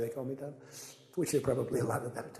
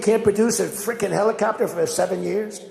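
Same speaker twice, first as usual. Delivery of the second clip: loud and high, indignant demand; outraged scolding; 7 semitones higher, 9 dB louder than usual. Retold or imitated. Speaker scolding defense contractors over helicopters, loud and outraged. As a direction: throw the accusation at them with rising anger.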